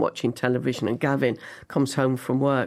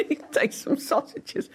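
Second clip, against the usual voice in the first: hushed aside; 10 semitones higher, 4 dB quieter than usual. Retold or imitated. Awkward breakfast scene.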